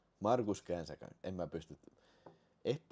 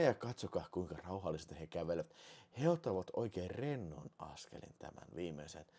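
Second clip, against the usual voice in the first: hushed, softer commentator voice; mock nature documentary; 7 semitones lower, 8 dB quieter than usual. Streamer mock-narrating the marbles' calm walk, hushed and softer.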